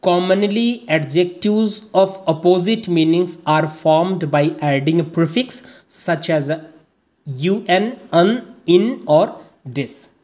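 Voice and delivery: reads the English rule out word by word, very slowly; slow dictation reading. Acted. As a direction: dictate the rule slowly so students can copy it.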